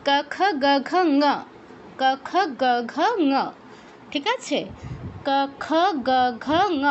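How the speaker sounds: ক, খ, গ, ঘ, ঙ said evenly, ঙ as a velar nasal with the same mouth shape; recited syllable drill. Shown as a demonstration. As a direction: run through the ক row keeping the face still. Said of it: "same expression রেখে বলতে হবে".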